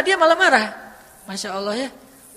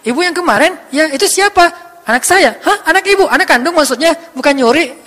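surprised; 4 semitones higher, 8 dB louder than usual. Retold or imitated. Prophet's surprised questions to mother.

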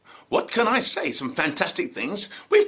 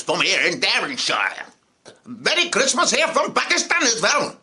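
mock greetings from friends. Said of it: "In the words of some of my friends".

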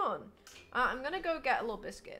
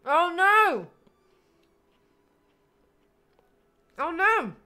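dismayed; 7 semitones higher, 11 dB louder, slower than usual. Real, not acted. Dismay at drawing mistake.

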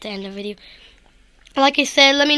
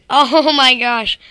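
laughing; 6 dB louder, much slower than usual. Real, not acted. Fails jump again.

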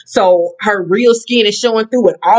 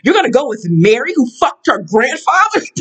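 imitating angry Jen; 4 semitones higher than usual. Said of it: "So Jen was like".

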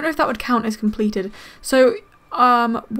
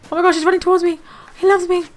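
delighted; 6 semitones higher, 5 dB louder, faster than usual. Real, not acted. Pokémon runs toward her.

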